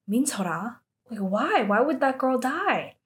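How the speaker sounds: mildly acted disbelief, rising questions; shocked. Hearing of a girl's death, mildly acted shock. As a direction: retell a stunned reaction. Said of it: "Yoon-hee is shocked".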